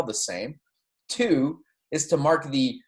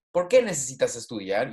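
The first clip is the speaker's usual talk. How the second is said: POR QUÉ pitched up, then down for the rest; rising on question word. Shown as a demonstration. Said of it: "my voice going up".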